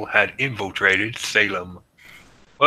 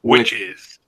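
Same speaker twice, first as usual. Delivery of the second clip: spooky high exclamation; 12 semitones higher, 4 dB louder than usual. Pretend.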